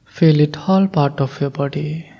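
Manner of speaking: voiceless gentle whisper. Acted. Guide whispering to listeners to feel their body, whispered. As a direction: breathe the words out in a whisper.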